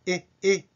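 "え" as the English short i, near e; i close to e. Shown as a demonstration. Teacher showing learners the new vowel, "え" between i and e. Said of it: "えに近いえという発音があります".

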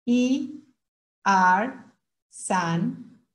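Mandarin numbers one by one, evenly spaced; counting drill. Shown as a demonstration. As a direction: model each syllable for learners to follow. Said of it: "Otra vez". (conteo pausado en chino, sílaba por sílaba)

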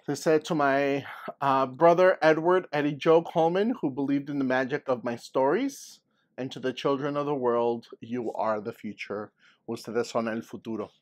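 calm read-aloud to the class; story reading. A narrator's reading. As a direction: read the dedication gently to children. Teacher reads dedication aloud.

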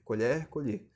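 "Colher, colher": first open "co-LHÉR", then closed "co-LHÊR". Shown as a demonstration. Teacher alternating homographs, "colher" open E then closed E. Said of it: "Perceba a diferença".

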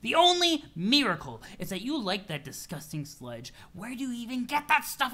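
mild mock scolding that climbs in pitch; a touch of acted disgust; irritable troll, disgusted. Troll questions his friend's disgusting drink, irritable.

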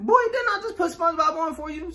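scolding mom. Acted. Mom scolding bored kid.

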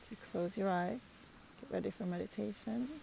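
unhurried meditation voice with long pauses between phrases; guided meditation. Real, not acted. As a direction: guide them calmly, phrase by phrase, leaving space to breathe.

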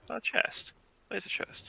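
excited whisper. Real, not acted. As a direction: hiss it out like a secret find. Spotting a chest excitedly.

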